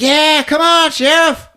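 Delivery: high-pitched excited cat voice; hammed-up call, urging him on; Clovis. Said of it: "Clovis is like".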